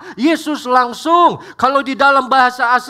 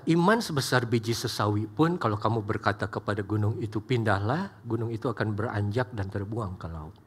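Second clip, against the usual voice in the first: soft quiet quote; 12 semitones lower, 11 dB quieter than usual. Acted. Quoting Jesus softly.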